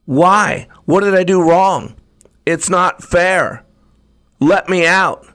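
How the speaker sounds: put-on a wronged child begging to be let out; upset pleading. Teacup in the fire begging the potter, hurt and pleading.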